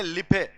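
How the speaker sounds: लिफे said as "li-phe", spelled-out misreading of life; deliberate misreading; mispronounced life. Shown as a demonstration. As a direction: read life letter by letter as लिफे. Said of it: "लाइफ को बोल देते हैं लिफे".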